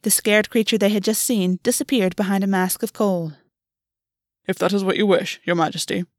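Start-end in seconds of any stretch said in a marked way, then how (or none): 4.5-6.0 crisp. A narrator's reading. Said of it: "Gwen said crisply".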